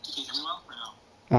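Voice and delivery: muffled, like through a wall; muffled bad mic, voice dull. Real, not acted. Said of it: "like, really muffled".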